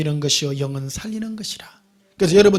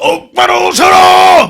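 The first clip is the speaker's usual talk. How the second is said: very loud, high-pitched, scary commanding bark; 13 semitones higher, 13 dB louder than usual. Imitating pastors whose voices are scary, mock-scary commanding voice. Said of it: "목소리가요 무서워요".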